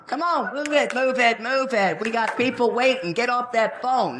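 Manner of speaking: high, pushy hurrying; impatient hurry. Retold or imitated. Hurrying people at the pump.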